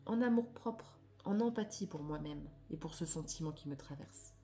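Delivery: declaimed reading, phrase by phrase; measured read-aloud. Acted. Reading affirmations on anger to listeners, measured declamation. Reads card text aloud.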